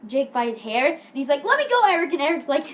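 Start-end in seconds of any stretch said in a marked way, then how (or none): 1.4-2.1 high, loud mock plea; hammed-up cry to be released; retold protest. Jake pleads with Eric grabbing his hair, high protest.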